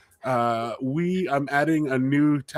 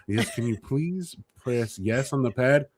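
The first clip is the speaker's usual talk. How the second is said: slow, polite imitation of mom's service voice; a light take on mom being patient with a client; customer service voice; 3 dB quieter than usual. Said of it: "with my mom's customer service voice".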